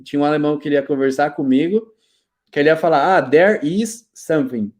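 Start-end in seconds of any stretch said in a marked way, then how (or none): 3.2-4.7 imitating a German English speaker; slow, German-tinted English; German accent. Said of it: "Só que ele não falava "there is". (imitando sotaque alemão em inglês)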